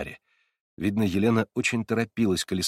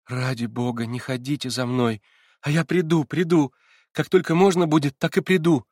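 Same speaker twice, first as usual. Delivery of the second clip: higher, urgent begging promise; pleading; 5 semitones higher, 3 dB louder than usual. A narrator's reading. Girl begging the narrator not to follow her, pleading. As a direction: beg him not to follow. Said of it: "вдруг с мольбою".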